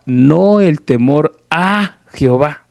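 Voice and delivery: A stretched out and set apart before Jehová; stress on A. Retold or imitated. Objectors insisting on the Bible's wording, stress on A. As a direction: lean slowly on the word A. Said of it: "Porque decían, "No, es que la Biblia dice".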